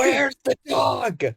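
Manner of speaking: high, slow hammed-up demand; mock shout. Superman demanding the dog back from Lex, mock shout. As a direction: yell it like a desperate hero.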